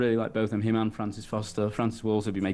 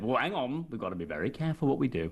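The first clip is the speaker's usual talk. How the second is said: lightly voiced cautious politician; a hint of a politician urging care; Nigel Farage; 4 dB quieter than usual. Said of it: "the only thing I can say really of him is what I said".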